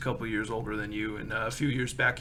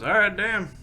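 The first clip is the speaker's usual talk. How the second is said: higher and louder, delighted; impressed cowhand; 8 semitones higher, 6 dB louder than usual. Acted. The cowhand reacts to the big job, excited and louder. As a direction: raise it, pleased by the offer. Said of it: "He goes".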